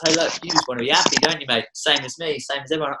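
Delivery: fast, high and bright plea; eager friendly realisation. Retold or imitated. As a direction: rush it out like a sudden discovery. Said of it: "you realise".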